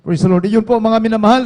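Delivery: ordinary talk, nothing marked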